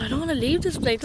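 fast, high, sad complaint about leaving; sad whine. Real, not acted. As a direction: plead it fast and high, unwilling to go. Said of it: "I'm so sad".

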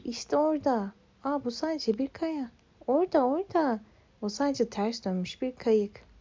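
high, eager pointing out; lightly voiced excited onlooker; excited spotting. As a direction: call out like a thrilled spotter.

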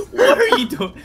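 high, loud laughing yell; laughing shout. Real, not acted. Laughing in chaos.

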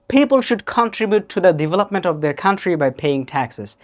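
careful, aspirated p in People and paying; imitating native pronunciation. Shown as a demonstration. Teacher echoing a native speaker's clip, careful puffed consonants. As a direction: say People, country, taxes with puffed p, k and t. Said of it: "সে কিভাবে বলেছে".

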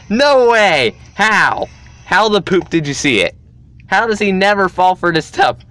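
high, loud cries of disbelief; outraged disbelief. Real, not acted. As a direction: shout it, can't believe he saw it. Friend spots the trap.

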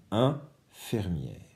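Infirmière répété très lentement, syllabe par syllabe; étire Infirmière pour montrer le son; syllabes étirées. Shown as a demonstration. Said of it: "au début du mot". (répété lentement pour l'élève)

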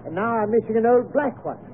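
indignant grumble with a touch of rage. Acted. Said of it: "in a rage".

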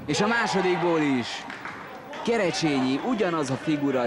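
high, thrilled goal commentary; excited goal call. Real, not acted. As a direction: burst out at the goal. Free kick goal scored.

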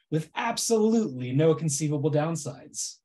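dry mock reassurance; deadpan irony, tongue in cheek; sarcastic. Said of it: "my incredibly sarcastic presentation".

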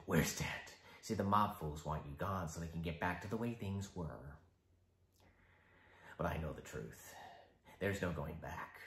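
low, quiet, menacing Joker; icy polite interrogator. Acted. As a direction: calmly needle him. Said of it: "the Joker".

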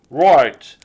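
loud, hearty Santa; a jolly Father Christmas. A narrator's reading. Santa speaks.

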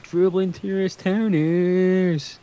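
slow, stretched southern-accent title; put-on southern accent. Shown as a demonstration. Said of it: "do, do the accent good".

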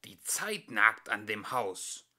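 slow, breathy whisper; ominous whisper. Acted. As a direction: whisper it like a dark omen. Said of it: "und auch".

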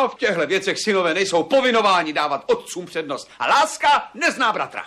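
laughs through the words at his father; mocking laugh, son to father; laughing defiance. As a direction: scoff with a laugh.

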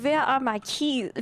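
put-on slow vampire accent with V for W; attempted vampire accent. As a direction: try out a drawn-out vampire accent. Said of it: "I mean my vampire accent".

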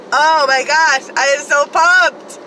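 loud, high and slow pumped cry; excited. Real, not acted. Vlogger hyping her haul to viewers, loud excited cry. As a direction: savor each word with glee.

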